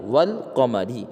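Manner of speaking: "والقمری" joined as wal-qamari; silent alif, sounded lam. Shown as a demonstration. Teacher after spelling it out, "والقمری" as wal-qamari. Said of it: "البتہ لام کا تلفظ ہو رہا ہے".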